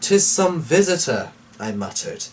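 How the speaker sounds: low, hushed poem recitation; dramatic reading. Acted. Reading Poe aloud to viewers, low and dramatic. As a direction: read it like a candlelit ghost story. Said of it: "a dramatic reading".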